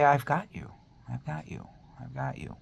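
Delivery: soft inner voice that fades away; fading echo. Retold or imitated. Echoing in her head, a fading soft voice. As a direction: let the words echo and fade to almost nothing. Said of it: "he echoes in our head".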